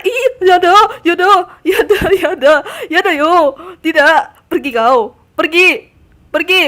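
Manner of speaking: loud panicked shouts of pergi; loud frantic shouting at the creatures; loud shooing. Real, not acted. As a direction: drive them off, yelling.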